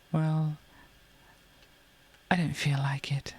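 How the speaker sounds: sly whispered controller voice; whispering. Pretend. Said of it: "But it's like".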